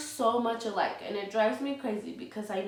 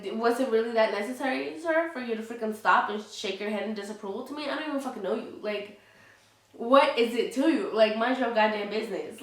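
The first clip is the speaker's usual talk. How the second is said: louder indignant telling-off of the stranger; talking to the absent driver in heated anger; mock angry rant; 4 dB louder than usual. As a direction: tell him to mind his business, fed up.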